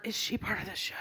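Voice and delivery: soft, hushed murmur from the crowd; whisper. Retold or imitated. Crowd member whispering about her, hushed. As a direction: lean in and half-whisper the question. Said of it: "I heard someone whisper".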